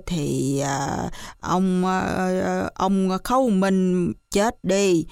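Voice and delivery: put-on rambling old man full of ums; a hint of an old country gossip; hesitant old villager. Old villager telling Khấu's tale.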